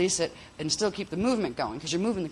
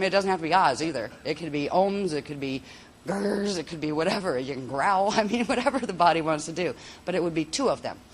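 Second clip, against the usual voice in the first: ordinary talk, nothing marked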